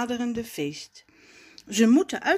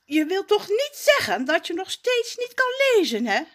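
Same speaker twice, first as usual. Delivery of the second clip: higher, louder mocking taunt; sneering grin; 12 semitones higher, 5 dB louder, faster than usual. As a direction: needle him with a grin. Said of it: "met een valse grijns".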